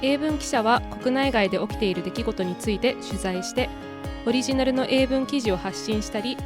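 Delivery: brisk, lifted announcer read over the opening music; podcast intro. Acted. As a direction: welcome listeners with a quick scripted introduction.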